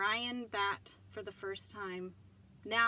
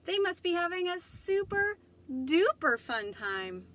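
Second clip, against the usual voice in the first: tag; 10 semitones higher, 9 dB louder than usual. Acted. Building longing.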